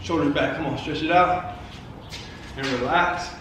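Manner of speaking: soft, low stretching guidance; soft calm cue. Acted. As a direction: ease them into the stretch. Stretching cooldown.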